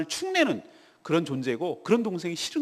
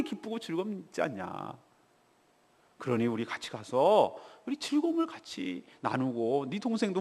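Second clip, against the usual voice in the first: gentle father. Acted. Preacher voicing the father patiently reasoning with his eldest son. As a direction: persuade him kindly, without scolding. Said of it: "따뜻하게 아들을 대합니까?".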